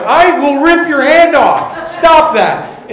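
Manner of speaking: loud, high, slow shouted threat; mock furious threat. Younger brother threatening the teaser, imitated furious shout. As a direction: shout it with hammed-up sibling rage.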